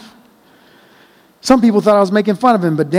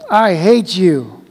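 yelled; much slower than usual. Acted. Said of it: "I yelled at him".

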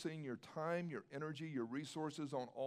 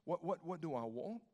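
hesitant questioning. Retold or imitated. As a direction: imitate a kid stammering in mild puzzlement. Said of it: "and he pauses".

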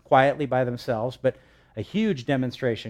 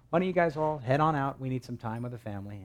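polite Jesus; 4 dB quieter than usual. Retold or imitated. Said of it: "how he did it".

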